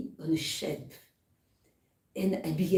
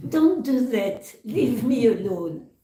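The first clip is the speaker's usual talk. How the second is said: higher, louder protest as the clay cries out; a storyteller's raised cry of protest; mock yell; 3 semitones higher, 5 dB louder than usual. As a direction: yell it like clay being pounded, in play. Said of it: "I started to yell out".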